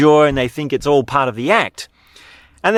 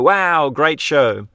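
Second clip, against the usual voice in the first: drawn out, slightly raised mock applause; mock crowd cheer; 4 semitones higher, slower than usual. Circus crowd cheering the clown's show, mildly impressed imitation. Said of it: "They clap and cheer and they go".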